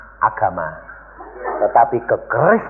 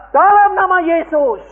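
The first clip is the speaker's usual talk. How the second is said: loud rote prayer; 4 dB louder than usual. Retold or imitated. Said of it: "Mereka berdua".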